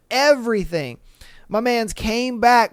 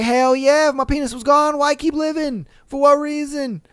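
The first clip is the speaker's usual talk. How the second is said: hammed-up chorus of indignant guys; imitated emphatic agreement; 7 semitones higher than usual. All the guys listening agreeing with him, hammed-up indignation. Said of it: "They're like".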